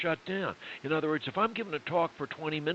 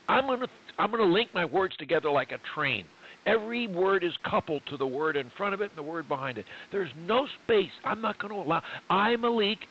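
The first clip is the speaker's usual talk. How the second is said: "link my words together" coupled like train cars, emphatic; modeled resolve, linked words; 3 semitones higher than usual. Acted. Coach voices client's pledge, emphatic linked words. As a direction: run the words on, stress "no space". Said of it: "if you instead will say".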